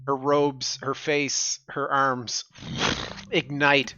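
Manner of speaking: slow, measured scene setting; game master's narration. Acted. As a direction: narrate it slowly, pausing between phrases.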